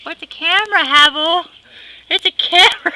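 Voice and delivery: high, loud mock bird squabble; squabbling bird voices. Two birds fighting over the camera, high and loud. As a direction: bicker like birds fighting for the spotlight.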